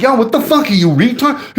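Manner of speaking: retold yell. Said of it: "So I'm, like, yelling".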